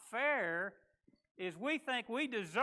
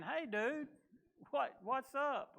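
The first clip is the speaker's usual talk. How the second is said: casual buddy greeting; 4 semitones higher, 4 dB quieter, slower than usual. Retold or imitated. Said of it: "a friend like saying".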